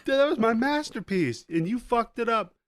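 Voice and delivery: high, loud outraged yell; furious monster. Retold or imitated. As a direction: roar out the wounded pride. Monster angry at the kid.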